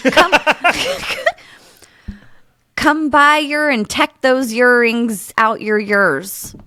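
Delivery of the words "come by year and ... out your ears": put-on lilting Welsh accent. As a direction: say it like a Welsh local. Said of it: "That's very good".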